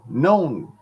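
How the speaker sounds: "Known" drawled as a nasal Southern "noan"; Southern "Known", held and nasal; Southern word known. Shown as a demonstration. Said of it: "There's another Southern word for you".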